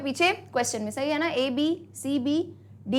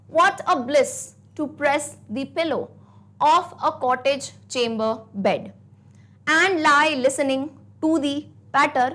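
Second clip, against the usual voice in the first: slow, measured recitation of the poem; slow poem reading; much slower than usual. Shown as a demonstration. Teacher reads the poem slowly aloud to the class. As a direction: read each line slowly to the class. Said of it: "एक बार मैं lines पढ़ देती हूँ".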